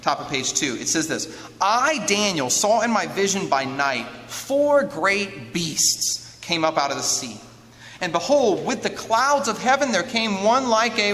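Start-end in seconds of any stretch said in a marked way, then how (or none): 1.6-11.1 measured, emphatic proclamation of a vision; scripture reading. Acted. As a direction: read it out weightily to a congregation. Reads scripture aloud.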